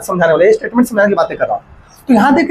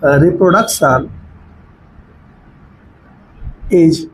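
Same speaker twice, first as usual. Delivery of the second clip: word by word, long pauses between, lower pitch; slow dictation; 4 semitones lower, much slower than usual. Real, not acted. Teacher writing out a point for students, slow dictation. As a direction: dictate it slowly as you write it out.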